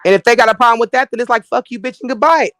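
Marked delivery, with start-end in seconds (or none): 1.5-2.5 haughty grande dame dismissal; Duchess voice. Acted. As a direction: grandly brush them off. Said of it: "in my Du-, Duchess voice".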